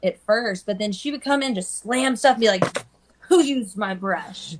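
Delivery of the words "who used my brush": slow, drawn-out accusing question; a light hint of a wicked witch; retelling the salon owner, slow and menacing; wicked witch boss. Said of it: "like the evil wicked witch".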